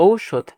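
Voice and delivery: ঔষধ as "ou-shodh", with a clear ou; correct diphthong. Shown as a demonstration. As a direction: model ঔষধ opening on an ou glide. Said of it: "যেহেতু এভাবে উচ্চারণ করি".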